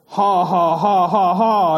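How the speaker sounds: hammed-up villain ha ha ha; mock giant laughing down at the boy; terrible giant laugh. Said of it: "an even terribler laugh".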